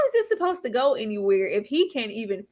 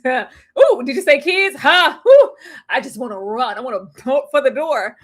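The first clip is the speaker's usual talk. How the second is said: louder, laughing mock panic; mocking the scared man; 6 dB louder than usual. Host mocking Cameron's panic, loud laughing. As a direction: play the spooked guy, lightly voiced. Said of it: "This man said".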